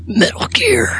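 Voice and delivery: hoarse, voiceless game-hero rasp; Snake. Acted. Friends trading Snake impressions, whispered and hammy. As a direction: whisper it as a mock action hero. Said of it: "I don't do impressions".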